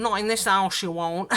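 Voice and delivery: lightly imitated Mancunian accent, a touch firmer; a husband's Mancunian put-down, only hinted. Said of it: "he said in his Mancunian accent".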